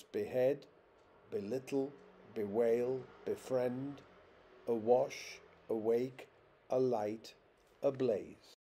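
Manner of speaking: "behead, belittle, bewail, befriend, awash, awake, alight, ablaze", each stressed on the second syllable; spaced word list, light prefix and stressed stem, from "behead" to "ablaze"; stress after the prefix. Shown as a demonstration. Lecturer listing prefixed words as examples, each stressed on the second syllable. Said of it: "always have the stress on the second".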